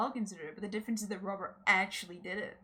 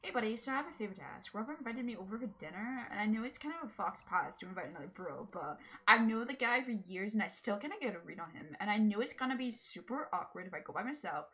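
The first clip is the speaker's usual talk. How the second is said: put-on Valley Girl voice. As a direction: play Craig as a Valley Girl. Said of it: "gave him, like, a Valley Girl voice".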